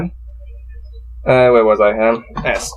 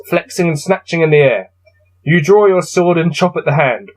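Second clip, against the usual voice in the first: steady gamebook reading voice; story narration; 3 semitones higher than usual. A narrator's reading. Player reading his gamebook to viewers, narrating. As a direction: read the passage out evenly. Reads gamebook text aloud.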